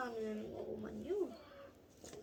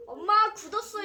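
surprised; 7 semitones higher, 9 dB louder than usual. Real, not acted. Mukbang noodles hardened, calling mom.

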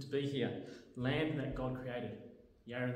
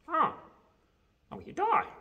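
puppet blurt; 8 dB louder than usual. Acted.

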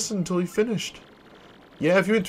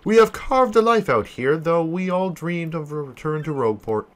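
a lower, solemn journal voice; diary reading; 3 semitones lower than usual. Acted. Merchant writing his castaway journal, solemn and lower. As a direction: read it like a shipwreck log. Flavio's castaway log read.

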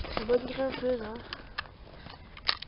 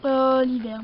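loud exclamation; 10 dB louder, slower than usual. Acted. Toy figure greets winter.

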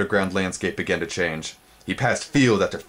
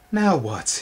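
panting; 9 semitones higher than usual. A narrator's reading. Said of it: "he panted".

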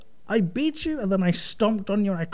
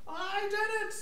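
very high, thin squeal; high, soft, drawn-out squeaky gloating; cracking pubescent voice; 13 semitones higher, 6 dB quieter, slower than usual. Real, not acted. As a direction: squeak it out like a voice breaking. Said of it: "Don't go through puberty on my account".

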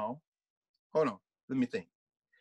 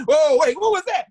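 mock surprise; 7 semitones higher, 8 dB louder than usual. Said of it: "reacting to the blue note".

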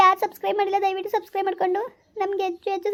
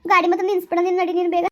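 scared urging; 4 dB louder than usual. Acted. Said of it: "ಭಯ ಆಯ್ತದೆ".

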